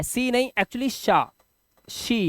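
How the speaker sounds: शा said slowly with a clear sh, not सी; pronunciation correction. Shown as a demonstration. Teacher corrects students who read she as सी, slow and soft. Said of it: "अब यहाँ पे सी लिखा है".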